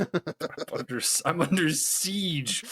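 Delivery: slow theatrical villain delivery; dramatic villain line. Acted. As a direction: ham it up slowly.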